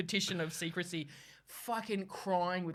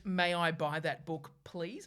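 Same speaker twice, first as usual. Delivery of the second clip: drawn-out, carefully polite request; schooled customer; much slower than usual. Retold or imitated. Schooled customer asking the bookseller properly, slow and over-polite. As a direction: ask slowly, like you've just been corrected.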